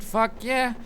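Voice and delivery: high, loud cheer; triumphant shout. Real, not acted. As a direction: whoop over the win. Celebrating a kill.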